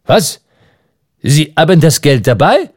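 surprised "Was?" jumping up high; astonished. Acted. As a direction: caught off guard, amazed. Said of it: "rief Michel Ardan erstaunt".

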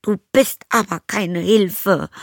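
high, loud, slow shout; yelling back. Acted. Zoe shouts back at her stepmother, high and loud. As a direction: shout back with all she has. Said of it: "brüllte Zoe zurück".

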